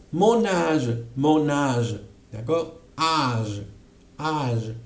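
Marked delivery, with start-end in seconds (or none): 0.1-2.0 "mon âge" with the A held long. Shown as a demonstration. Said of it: "vamos a pronunciar mon". 3.0-4.7 "Âge" with a long held A, lower; lengthened A. Shown as a demonstration. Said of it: "un poquito más largo".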